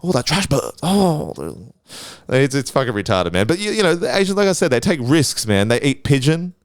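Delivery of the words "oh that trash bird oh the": bad Asian accent. Comedian retrying the bird killer's line, bad Asian accent. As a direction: attempt a fake Asian accent, then let it fade. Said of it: "that's a bad Asian accent".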